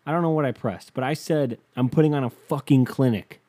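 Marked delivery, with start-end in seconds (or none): 1.7-3.4 retold outburst, somewhat louder; raised-voice boast from a retold argument; mild mock scream. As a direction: re-enact yelling it at her, partly held back. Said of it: "I screamed that at her".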